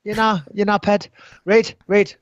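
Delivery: mock Geordie impression; Geordie accent. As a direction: defend yourself in a badly faked Geordie accent. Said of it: "I'm trying to do a Geordie accent".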